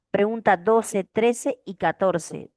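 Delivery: trece y catorce said slowly, word by word; slow dictation. Shown as a demonstration. Teacher assigning homework, slow clear dictation. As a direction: dictate it slowly for the class to note. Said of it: "teacher dictates question numbers".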